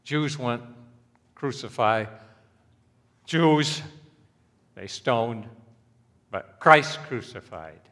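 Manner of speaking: loud, impassioned pulpit delivery; preacher driving home Christ's shameful death, loud and fervent; fiery preaching. Acted. Hammer each phrase from the pulpit.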